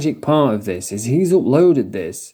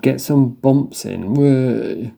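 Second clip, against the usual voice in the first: slow mocking copy of his voice; imitating the video guy; much slower than usual. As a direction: parrot the clip, drawn out. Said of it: "That was a quick sheriff impression".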